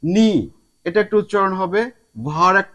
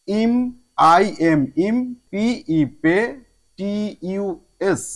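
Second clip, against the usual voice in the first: measured spelling aloud, ending on "টি ইউ এস"; spelling by syllable. Shown as a demonstration. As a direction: spell out "ইম" and "পে" letter by letter, with pauses. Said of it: "সিলেবলটা মাথায় রেখে".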